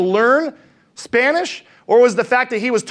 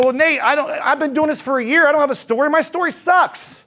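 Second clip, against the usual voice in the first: mock whiny complaining agent, higher; 4 semitones higher than usual. Agent in the audience whining his story sucks. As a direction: whine like a doubting agent. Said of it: "some of you guys go".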